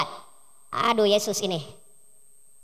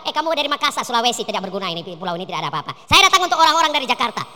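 lower, scornful put-down of Makassar; mock dismissive; 6 semitones lower, faster than usual. Jesus scorning a woman from Makassar, mock contemptuous. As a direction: brush her off with contempt. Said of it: "Yesus berkata kepada kamu".

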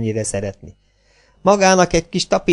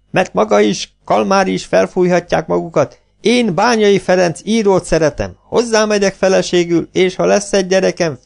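higher, louder bawling tirade; 7 semitones higher, 3 dB louder than usual. Acted. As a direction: bawl it out, much higher and louder. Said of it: "bömbölte".

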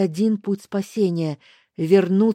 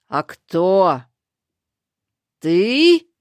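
hissing crone; 7 dB louder, much slower than usual. Acted. Старуха шипит на Лестера, злобно и громко. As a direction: spit the question at him. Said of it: "прошипела она".

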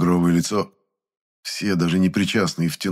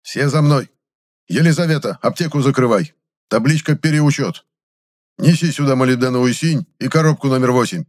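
barked orders; 7 semitones higher, 6 dB louder than usual. Acted. Chemist commanding staff.

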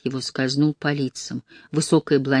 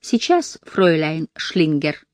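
put-on fawning girls; slower than usual. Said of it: "подобострастно ответили девочки".

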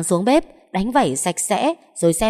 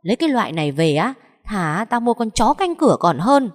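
loud, high furious mother-in-law yelling; shrill-pitched rant from an outraged matriarch; shrieking scold; 6 semitones higher, 3 dB louder than usual. A narrator's reading. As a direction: screech at the lazy daughter-in-law. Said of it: "mà tru chéo".

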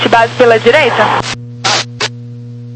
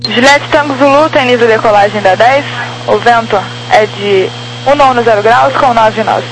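radio transmission voice; over walkie talkie. Real, not acted. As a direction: tower speaking over radio. Tower gives wind on radio.

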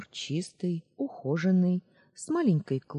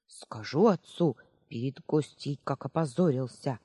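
scolding. Acted. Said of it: "отругала внука старушка".

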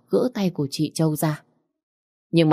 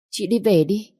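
higher pleading "Chị đi về đi"; coaxing urging; 4 semitones higher than usual. Acted. Stepsister urges her sister to go home, coaxing plea. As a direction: nudge her out gently but insistently.

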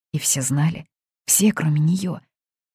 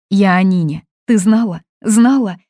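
loud, higher, pressing demand; insisting; 5 semitones higher, 9 dB louder than usual. A narrator's reading. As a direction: push her for the truth. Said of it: "настаивала Полина".

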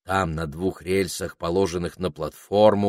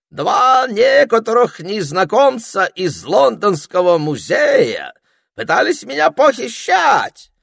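put-on loud, high, theatrical French accent; французский акцент; 10 semitones higher, 10 dB louder than usual. A narrator's reading. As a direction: preen in a French accent, soaring at the end. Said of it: "с сильным французским акцентом". (манерно, громко, с французским акцентом)

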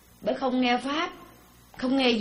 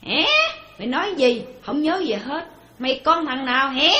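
lightly voiced senile grandpa, questions lifting higher; confused old grandfather; 3 semitones higher, 3 dB louder than usual. Preacher mimics a senile grandfather failing to know his grandson, lightly befuddled. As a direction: play a forgetful old man querying everyone. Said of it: "ông nội".

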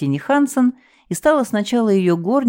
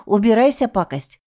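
angry shout; 5 semitones higher than usual. A narrator's reading. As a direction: chase it off. Cook stamps at mouse.

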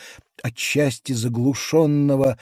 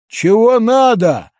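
gruff giant question; 7 semitones higher, 7 dB louder than usual. A narrator's reading. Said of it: "спросил Кадльс".

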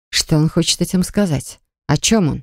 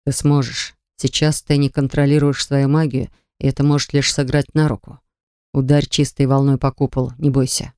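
lightly lowered calm man; whispered pep talk; 3 semitones lower than usual. Acted. Anvejm encourages her.

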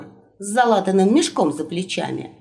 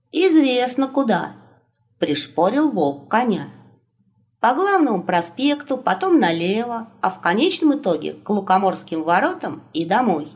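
raised, matter-of-fact wolf. Acted. Wolf voiced higher.

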